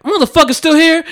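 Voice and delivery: fed-up yelp at the turkeys; exasperated outburst. Retold or imitated. Retold frustration at returning turkeys.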